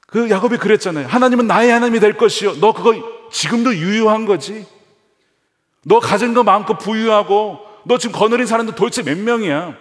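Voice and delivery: high, loud challenging preach; fervent preaching. Acted. Preacher voices God challenging Jacob: fervent high loud preaching. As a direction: press the question home with rising fervor.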